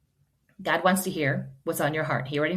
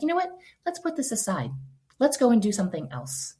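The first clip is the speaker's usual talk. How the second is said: gentle coaxing; 6 semitones higher than usual. Acted. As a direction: lightly coax a child away from tears. Mother soothing a child near tears.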